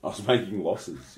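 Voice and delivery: laughing while repeating. Real, not acted. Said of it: "What did you say before?".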